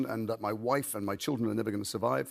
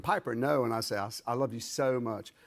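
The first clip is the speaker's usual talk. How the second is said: North Carolina accent; 3 semitones lower, 3 dB quieter than usual. Shown as a demonstration. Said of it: "a couple of sounds like the O sound".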